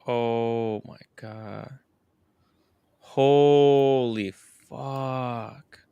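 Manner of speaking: slow, drawn-out amazement; stunned disbelief. Real, not acted. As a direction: stretch the words out in awe. Stunned by a donation.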